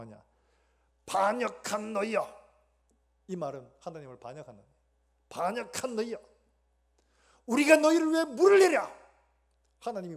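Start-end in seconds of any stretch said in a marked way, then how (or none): 1.1-2.3 slow, loud, high-pitched angry shout; furious Moses. Acted. Moses rebuking the rebellious people, furious shout. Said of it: "모세가 성질이 너무 난 겁니다". 5.3-9.0 high, full-force enraged yell; furious Moses. Acted. Moses raging at the people over water, furious yelling. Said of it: "모세가 성질이 너무 난 겁니다".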